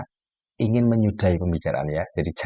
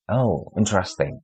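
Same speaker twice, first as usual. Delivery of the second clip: flat interesting; slower than usual. Shown as a demonstration. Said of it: "dia katakan dalam bahasa yang begitu".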